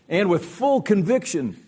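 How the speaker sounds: słowo full wyraźnie zaakcentowane, wyżej i wolniej; stress on full. Shown as a demonstration. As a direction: lean hard on full, slowly. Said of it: "I underline the word full".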